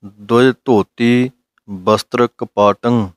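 slow, measured scripture chanting; slow recitation. Shown as a demonstration. Teacher reciting the Gurbani line for students, slow recitation. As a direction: draw the line out calmly.

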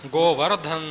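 "ਗੋਵਰਧਨ" with a short, unstressed last vowel; teacher's careful "ਗੋਵਰਧਨ", voiced dh in the last syllable; correct pronunciation. Shown as a demonstration. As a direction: model "ਗੋਵਰਧਨ" carefully, ending in a short -dhan. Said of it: "ਇਉਂ ਪਾਠ ਕਰਨਾ ਹੈ".

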